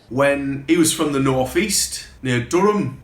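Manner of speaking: northeast English accent. Shown as a demonstration. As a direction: attempt at a Durham accent. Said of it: "the best accent you're gonna get from me".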